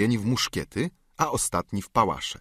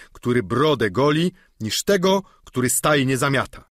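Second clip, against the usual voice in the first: lightly voiced noble knight, approving; a hint of a lofty knight granting favour; Don Quixote voiced; 5 semitones higher, 5 dB louder than usual. Don Quixote answers Sancho.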